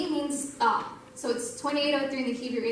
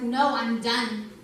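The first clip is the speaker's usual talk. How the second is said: authoritative; much slower than usual. Retold or imitated. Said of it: "I had this authority in my voice".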